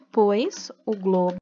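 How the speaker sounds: drawn-out words, paced for writing; slow dictation. Real, not acted. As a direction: dictate slowly for pupils copying it down. Dictating the written answer slowly.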